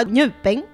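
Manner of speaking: 泥饼 said in Pingyang dialect, with its odd stress and final tone; 泥饼 in local Pingyang speech; Pingyang dialect pronunciation. Shown as a demonstration. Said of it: "我们就是平阳话".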